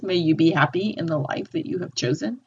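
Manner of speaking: light spiteful edge, rising at the end; a bit of spite. Shown as a demonstration. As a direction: wish him well with a hint of spite. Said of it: "a little bit of spite there".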